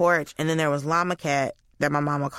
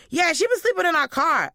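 high-pitched neighbor impression; put-on high, chatty neighbor; neighbor's voice; 11 semitones higher than usual. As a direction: imitate the neighbor in a raised pitch. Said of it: "neighbor goes".

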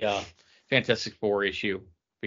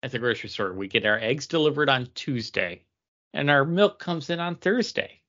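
mock store announcement; 4 semitones higher than usual. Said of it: "That's like saying".

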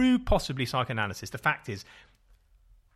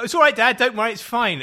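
put-on higher and louder, a boy eager to reassure; child's reassurance; 9 semitones higher, 7 dB louder than usual. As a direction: play the forgiving kid brushing it off brightly. Child reassuring dad after being hit.

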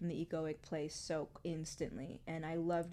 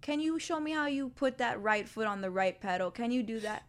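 much higher, louder praise; cheering parent; 8 semitones higher, 7 dB louder than usual. Pretend. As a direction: celebrate the kid's small win.

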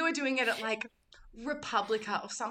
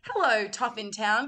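big hello to the crowd; stage greeting; 5 dB louder than usual. Acted. Cabaret performer addressing the venue, stage greeting. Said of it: "just be like".

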